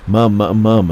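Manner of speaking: mild imitation of screaming for mum; retold scream. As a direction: imitate a frightened call for mum, held back from a scream. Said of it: "this time screaming out to my mum".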